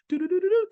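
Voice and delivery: high, tooting flute imitation; imitating a flute. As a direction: toot it high like a dainty flute. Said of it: "a nice dainty flute ... that's like".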